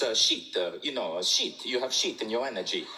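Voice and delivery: imitated French accent with hesitant repeats. Marie explains her blunt word to Vishen, French accent. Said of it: "in her French accent".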